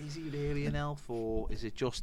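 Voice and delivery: whispered so as not to spoil it. Real, not acted. Cohost whispers to avoid spoiling the film, unvoiced. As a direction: hush it like a secret. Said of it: "whispered spoiler question".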